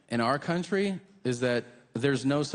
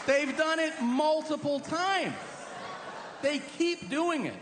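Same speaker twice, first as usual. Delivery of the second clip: mock Texan; 13 semitones higher, slower than usual. Texan voice continued.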